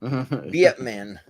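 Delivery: attempted New Zealand accent, falling at the end; mock New Zealand vowels. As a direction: try the title as a fake Kiwi. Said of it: "Should I try it with every single".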